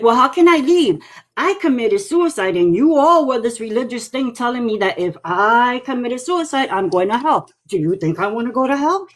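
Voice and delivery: lightly voiced ghost, somewhat high and pleading; ghost uncle. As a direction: plead a little as the trapped uncle. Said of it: "he's like".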